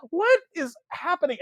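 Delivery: high, loud baffled outcry; exaggerated bewilderment. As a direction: cry out at the absurd plot. Viewer's reaction to absurd plot.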